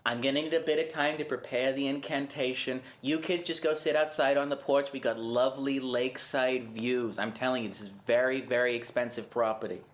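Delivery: put-on Massachusetts accent. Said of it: "You sound like you're from Massachusetts".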